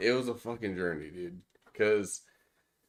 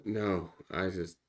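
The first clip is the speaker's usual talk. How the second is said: breathless after putting them back on; winded, pushing the words out; out of breath; 6 dB louder than usual. Real, not acted. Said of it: "You sound out of breath".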